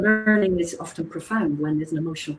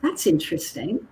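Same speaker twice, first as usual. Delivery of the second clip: a calm, softer "that's interesting"; calm reply; 6 dB quieter than usual. Retold or imitated. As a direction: answer evenly, without rising to the bait. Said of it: "And I calmly said".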